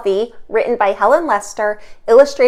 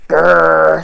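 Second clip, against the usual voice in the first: growl; 5 semitones lower, 5 dB louder than usual. Acted. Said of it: "said the rhinoceros".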